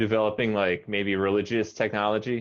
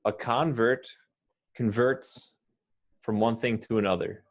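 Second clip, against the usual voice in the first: A convert stressed KON-vert, converts stressed con-VERTS; noun then verb stress. Shown as a demonstration. Teacher modelling both stresses in one sentence. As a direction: shift the stress between the two words. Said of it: "say both the noun and the verb".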